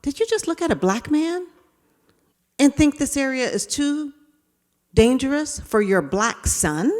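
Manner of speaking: high, disbelieving question to yourself; incredulous self-questioning. Retold or imitated. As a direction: scold yourself in shocked disbelief. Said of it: "Talking to myself".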